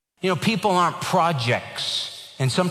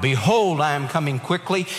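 belted out. Retold or imitated. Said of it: "he belted it out".

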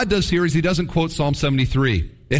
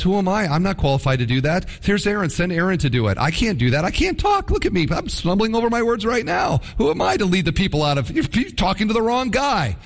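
flustered excuses. Retold or imitated. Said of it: "And Moses says".

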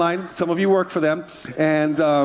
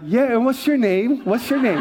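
higher, playful imitation of himself being recognized; mock flattered reply; 5 semitones higher than usual. Pastor replying to the lady who knows him, lightly hammed-up higher voice. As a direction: lightly ham up a pleased reply. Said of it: "I'm like".

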